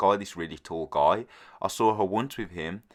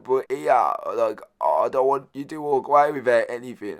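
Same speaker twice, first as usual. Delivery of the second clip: higher, louder mock voice of the insistent woman; imitating the woman; 6 semitones higher, 4 dB louder than usual. Woman on the street urging him to take the bag, in a higher, louder put-on voice. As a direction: lightly play her pushing the offer, higher and louder.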